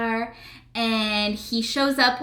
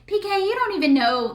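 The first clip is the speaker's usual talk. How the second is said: higher pitched imitation of annoyance; mock indignant wife; 10 semitones higher than usual. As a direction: scold her husband, pitched up. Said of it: "And she's like".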